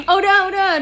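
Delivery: high loud call to stop; hushing shout. Real, not acted. Owner telling her pet to stop, loud and high. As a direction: cut it off loudly.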